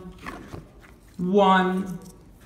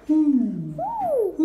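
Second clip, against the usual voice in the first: owl hoot; 10 semitones higher than usual. Shown as a demonstration. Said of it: "คุณพูดภาษา owl?".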